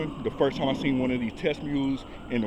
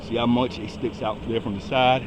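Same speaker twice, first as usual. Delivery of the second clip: out of breath. Real, not acted. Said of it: "I'm sorry, I'm out of breath".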